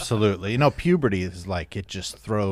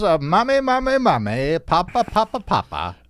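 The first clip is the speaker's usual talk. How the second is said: higher sing-out, mommy and papa repeated; mock childlike pleading; 8 semitones higher than usual. Playing along with crawling on all fours, high childlike pleading. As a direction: chant it in a raised, silly baby voice. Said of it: "crawl around and go".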